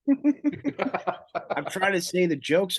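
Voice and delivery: laughing through the words, slow. Real, not acted. Comic to fellow comic about hecklers, laughing. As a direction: giggle through it while you talk.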